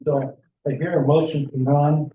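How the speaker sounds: talking with a mouth full of food. Real, not acted. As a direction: speak through a mouthful. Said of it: "You got me with my mouth full".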